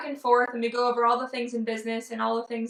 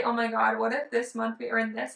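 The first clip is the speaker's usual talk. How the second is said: excited. Retold or imitated. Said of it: "But if I say".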